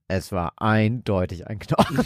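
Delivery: low, soft, mock-ominous quote; hammed-up spooky delivery; dramatic reading.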